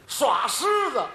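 triumphant shout. Real, not acted. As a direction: proclaim the answer proudly. Triumphant answer to riddle.

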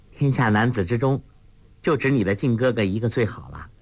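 laughing. Acted. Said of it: "穆念慈笑道".

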